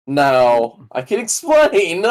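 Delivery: drawn-out pompous excuse; mock calm excuse. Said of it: "he'd be like".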